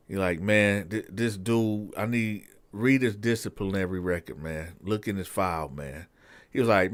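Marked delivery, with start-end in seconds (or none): 0.4-6.1 hushed aside to the captain; soft, fast confidential aside; sergeant pulling him aside. Retold or imitated. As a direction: keep it low, just between us. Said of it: "This the sergeant talking".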